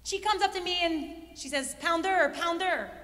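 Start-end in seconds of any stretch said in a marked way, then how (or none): 1.8-2.9 attempted French accent. Speaker imitating French teammate calling her, French accent. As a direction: imitate a French accent as best you can. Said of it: "That's her French accent".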